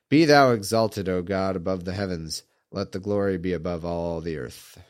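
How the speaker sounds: low, hoarse sick voice; deep sick voice. Real, not acted. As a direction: read through a sick, deep voice. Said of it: "I got the deep, sick voice".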